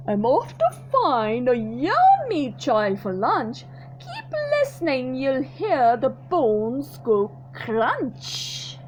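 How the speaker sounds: slow, gloating croc voice; menacing crocodile. Acted. Crocodile taunting the elephant, slow gloating. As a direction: relish the crunch of bones.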